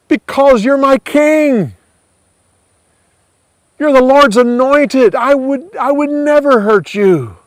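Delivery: high, urgent pleading voice; pleading David. Acted. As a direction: beg the king to believe you.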